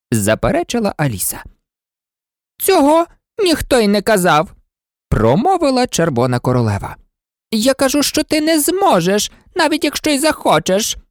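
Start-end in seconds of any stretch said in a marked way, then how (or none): 2.6-11.0 haughty queen. Acted. Red Queen contradicting Alice.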